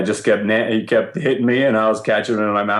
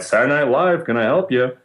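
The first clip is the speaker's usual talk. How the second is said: goofy, higher put-on voice answering the phone; funny phone voice; 5 semitones higher than usual. Intern answering the show's phone, silly voice. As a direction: chirp the greeting like a cartoon receptionist. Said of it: "answered the phone with a funny voice".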